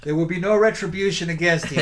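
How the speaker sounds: pompous sputtering colonel. Retold or imitated. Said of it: "They say".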